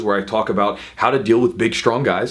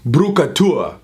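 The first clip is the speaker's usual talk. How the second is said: higher imitation of a teammate; imitated teammate's nickname call; 4 semitones higher, much slower than usual. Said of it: "and he says".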